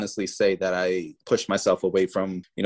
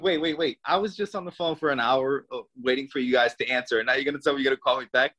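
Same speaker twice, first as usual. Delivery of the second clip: higher, incredulous objection; acted-out exasperation, pitched up; retold indignant protest; 5 semitones higher than usual. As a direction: cut in and object, speeding up at the end. Protests to VA clerk over callback.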